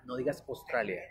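"Australia" as "Ostralia"; wrong take, O. Shown as a demonstration. Teacher warning learners, O-initial "Ostralia". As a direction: open "Australia" on a plain O.

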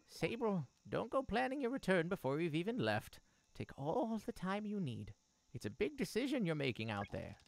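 lightly voiced caring mother. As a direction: speak as a gentle mother.

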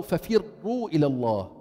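ففروا with a doubled, unrolled ra; controlled ra. Shown as a demonstration. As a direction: grip the tongue on the ra of ففروا. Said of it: "لاحظ اللسان يطلع وبيكمش".

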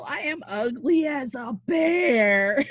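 laughing lament. Acted. Helena laments her looks.

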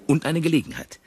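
excited boast. Acted. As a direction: crow about the bargain. Prahlt mit Pelzmantel. (aufgeregt und laut prahlend)

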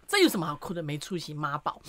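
retold scolding. Father scolding crying son, mildly dismissive. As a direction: imitate a dad's brief telling-off. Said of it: "你怎么这样骂儿子嘞".

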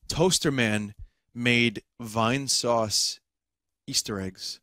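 each word spelled out slowly; careful slow reading. Shown as a demonstration. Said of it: "learn how to speak first".

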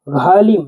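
ঘালিম with a deep, aspirated gh; ঘালিম starts with a breathy gh; deep drawn gh. Shown as a demonstration. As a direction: pull the ঘ in ঘালিম from deep in the throat. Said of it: "একটু গভীরভাবে টান দিয়ে বলতে হবে".

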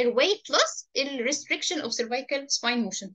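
each word laid out slowly; teacher spelling out the term for notes, slow; slow dictation. Shown as a demonstration. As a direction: dictate it slowly so they can write.

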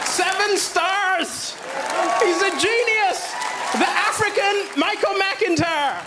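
drawn-out, proclaimed acclaim; mock rave review. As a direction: stretch each word like a triumphant headline. Reading out his own rave review.

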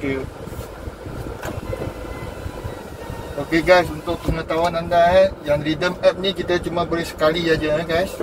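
muffled through surgical mask; through a face mask. Real, not acted. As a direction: mouth covered by mask. Seen 2: Blue surgical mask covers his mouth and nose in all labelled frames.

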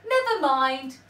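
loud, menacing troll threat; hungry troll. A narrator's reading. Troll threatening to eat the spider, loud menace. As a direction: bellow it like a greedy troll. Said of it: "says the troll".

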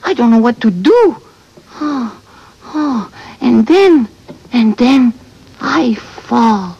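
put-on French-Canadian accent. Bird telling friends about the storm, Quebec accent. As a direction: storm tale in dramatic Québécois English. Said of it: "Because she's from Quebec".

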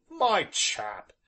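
gruff rustic warning. A narrator's reading. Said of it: "said Job warningly".

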